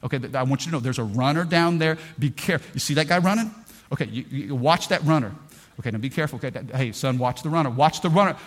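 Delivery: lightly voiced father, patient and repetitive; mild hint of a careful dad; calm dad warning. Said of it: "the dad's like".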